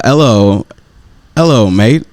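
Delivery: slow, badly faked Irish accent; attempted Irish accent. Man asked for his best Irish accent, badly faked Irish. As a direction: try a hesitant, unconvincing Irish accent. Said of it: "give us your best Irish accent".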